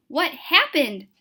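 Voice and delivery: slow, heavy "What happened?" with stress on happened; urgent question. Acted. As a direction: drag out the question in alarm. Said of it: "I'm gonna be all the characters".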